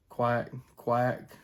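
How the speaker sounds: short clipped quack sounds; duck quack demo. Shown as a demonstration. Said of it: "something like that".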